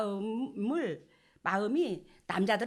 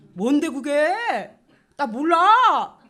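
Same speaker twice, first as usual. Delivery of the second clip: slow, loud, clueless, dismissive shrug-off. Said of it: "이게 남자거든".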